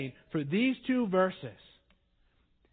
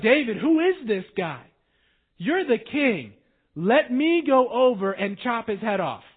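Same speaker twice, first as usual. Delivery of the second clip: loud, eager and higher; fierce warriors; 4 semitones higher, 7 dB louder than usual. Retold or imitated. Mighty men urging their king to let them strike, loud and eager. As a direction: beg to go chop his head off. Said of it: "These are some fierce dudes".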